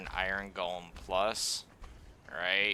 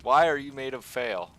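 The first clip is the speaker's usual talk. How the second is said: exasperated scolding; 2 semitones higher than usual. Retold or imitated. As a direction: berate the golem in a raised, whiny voice. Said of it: "It's just like".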